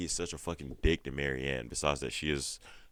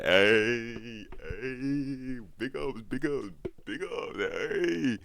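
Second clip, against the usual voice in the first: high, drawn-out celebratory whoops; hammed-up high congratulations; playful cheering; 8 semitones higher, 4 dB louder, much slower than usual. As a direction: imitate a hype mom teasing her son. Acts mom celebrating son's guest.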